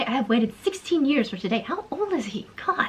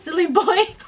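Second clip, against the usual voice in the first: put-on British accent; 6 semitones higher than usual. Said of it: "Why is she British?".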